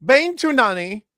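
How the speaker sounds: slow French-accented band name, rising at the end. Shown as a demonstration. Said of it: "in your nice French voice".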